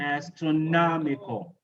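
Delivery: Astronomical with the weight on "nom"; astroNOMical, clearly stressed. Shown as a demonstration. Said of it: "So the same for all of these".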